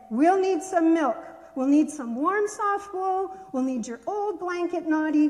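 little pig firmly telling the animals what to bring; firm orders. Acted. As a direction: take charge of the barn. Pippin firmly gives orders.

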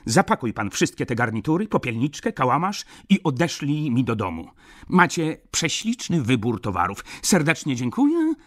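high, loud, effusive customer; showy, high-pitched gentleman drowning out a critic; loud baron. A narrator's reading. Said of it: "zawołał nie mniej głośno baron".

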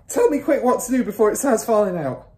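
high, loud frantic plea; father's wail. A narrator's reading. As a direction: beg urgently in panic. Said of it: "wailed the father".

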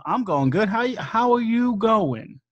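put-on host fumbling an Australian accent; a clumsy try at an Aussie accent; half-hearted mock Australian accent; bad Australian accent. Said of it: "I don't know how to do Australia".

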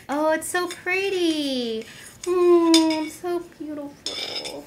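high, slow, tearful-sounding admiration; emotional gushing. Real, not acted. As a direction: overcome by how pretty it is. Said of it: "I'm so emotional".

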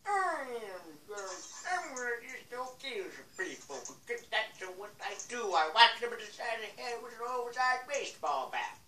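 lightly voiced old man; a hint of an old man; old man Jenkins voice. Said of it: "my old man Jenkins voice".

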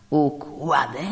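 Układy? with a rising, startled tune; the judge echoing Układy? in disbelief; surprised question. Acted. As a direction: throw Układy? back as an exclaimed question. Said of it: "krzyknął sędzia z niezwykłym zapałem".

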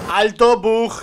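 sudden yelled outburst; loud shout. Real, not acted. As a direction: yell it out at the screen. Shouting at a game bug.

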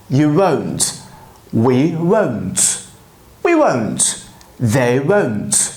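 each "won't" said with a long round o, falling; won't drill. Shown as a demonstration. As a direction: repeat "won't" slowly after each pronoun. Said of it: "çıkartın".

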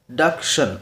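"डक्शन" as two beats, DUC, TION; split into syllables. Shown as a demonstration. Teacher counts second foot of introduction, syllables sounded out. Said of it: "दो syllables".

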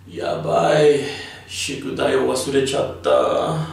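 high, loud panicked cry; panicked yabai. Shown as a demonstration. Teacher acts out forgetting homework, panicked. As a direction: suddenly realise you forgot your homework. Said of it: "a negative form of using it".

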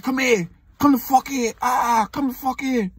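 put-on high, strained yelling boyfriend; angry ex calling her over; mock angry boyfriend. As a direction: bark it like the jealous ex. Boyfriend yelling at girlfriend outside.

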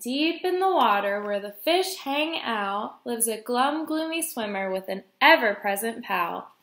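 measured, lilting picture-book read; reading to children. A narrator's reading. Guest reader reading a fish story to children, storytime lilt. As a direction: read the rhyme out for little listeners.

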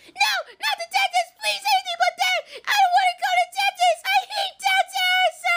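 pleading wail. Pretend. Fantasia begs against dentist.

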